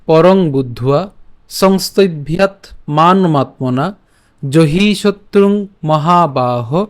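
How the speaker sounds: slow, measured Sanskrit shloka reading; verse recitation. Shown as a demonstration. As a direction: draw out each long vowel, phrase by phrase. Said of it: "তো শ্লোকটি হলো".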